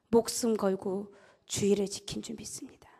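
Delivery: hushed, unvoiced emphasis; preacher's whisper. Preacher whispers to the congregation for emphasis. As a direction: drop to a whisper to draw them in.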